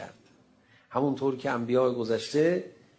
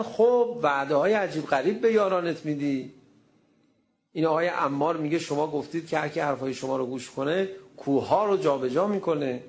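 mocking taunt; 3 semitones higher than usual. Jews taunting the Prophet.

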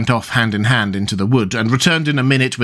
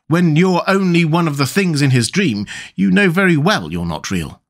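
higher-pitched, insistent storybook character; lightly voiced Tweedledum, pitched up; contradicting Tweedledum; 6 semitones higher than usual. A narrator's reading. Tweedledum telling Alice she's not real, lightly voiced contradiction.

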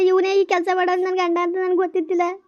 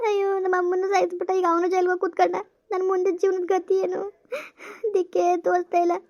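tearful lament. Acted. Wife laments alone, weeping.

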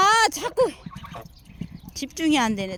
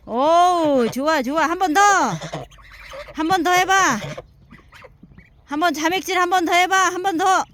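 louder cheering encouragement; talking to ducks; 2 semitones higher, 4 dB louder than usual. Real, not acted. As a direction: egg them on to dive again. Cheering ducklings diving. (신나게 응원하며)

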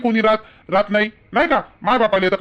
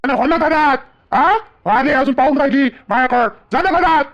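raised, scolding command; angry ordering; 3 semitones higher than usual. Acted. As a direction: order her indoors, pitch pushed up. Angrily ordering her back indoors.

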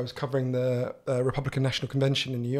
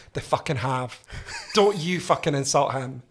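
indignant Scottish mother impression; mock-offended Scottish accent; strong Scottish accent. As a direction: scold in a thick Scottish accent. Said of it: "strong Scottish accent".

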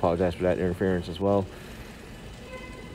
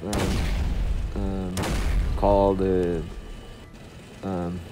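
muffled behind a face mask; through a face mask. Real, not acted. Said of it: "excuse me for my voice as I'm talking behind the face mask".

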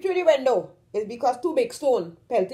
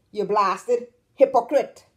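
slow, weighted "hypocrite", each syllable distinct; stressed words; slower than usual. Shown as a demonstration. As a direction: stretch out "blasted hypocrite" with heavy stress. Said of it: "We like to stress on the words".

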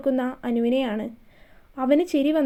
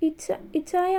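softer, higher, catching on the name; breathless stammer; 4 semitones higher, 5 dB quieter, slower than usual. A narrator's reading. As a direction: stumble over the name as if overwhelmed. She is bitten on the neck. (ശ്വാസം മുട്ടി വിക്കിയുള്ള വിളി)

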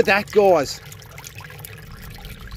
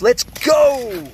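pumped up; 6 semitones higher, 4 dB louder than usual. Real, not acted. Firing up the jetter.

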